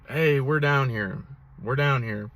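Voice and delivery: lightly voiced hen duck calling; a hint of a chatty hen mallard. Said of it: "a hen mallard on the water going".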